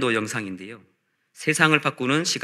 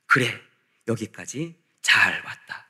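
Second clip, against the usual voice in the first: measured, tender acknowledgement with long pauses; lightly voiced divine comfort, drawn out; the Lord's welcome; 2 semitones lower, slower than usual. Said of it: "주님께서 우리에게 이렇게 말씀하실 것입니다".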